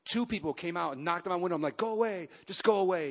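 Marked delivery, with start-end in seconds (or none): 1.8-3.1 retold shooing. Retold shooing friends from car window.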